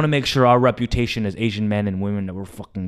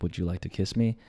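nervous whisper-soft ask; 6 semitones lower, 12 dB quieter than usual. Retold or imitated. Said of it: "I get really nervous".

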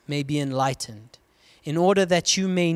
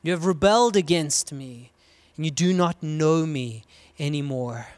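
God's outcry. Acted. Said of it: "a relational outcry from God's heart".

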